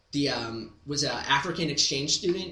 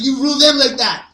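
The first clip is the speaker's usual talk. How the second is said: exchange student voice; 9 semitones higher, 11 dB louder than usual. Retold or imitated. Exchange student's final line.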